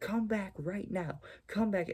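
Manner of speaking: furious, high, screaming yell. Retelling how she followed him into the hallway, retelling her screaming. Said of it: "she starts screaming in the hallway".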